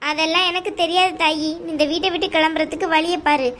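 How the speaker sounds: a domineering aunt, coldly dismissive; mother-in-law telling the bride to leave the house, scornful. Acted. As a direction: lay down the law to the unwanted daughter-in-law. Aunt orders her out.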